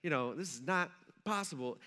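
hushed, understated panic; mock freaking out. Peter realizing he is walking on water, mildly freaking out. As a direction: imitate someone quietly losing his nerve. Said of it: "he starts freaking out".

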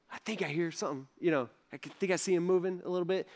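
soft, tentative parent's murmur; hushed listening. Acted. Father leaning over the sleeping baby, hushed. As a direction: keep it down, unsure what you hear.

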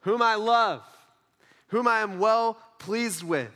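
slow, emphatic proclamation; loud, audible voice. Acted. Voice from heaven declaring love for his son, emphatic. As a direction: project each phrase with spaces between. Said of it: "a loud, audible voice says".

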